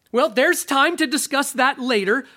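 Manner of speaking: high, nervous dodge; flustered ghost. Acted. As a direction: brush it off in a hurry. Ghost evades, higher.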